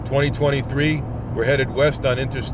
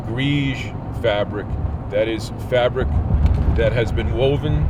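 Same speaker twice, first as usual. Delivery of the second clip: on a bumpy road. Real, not acted. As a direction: voice jostled by road bumps. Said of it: "sorry about the bumps".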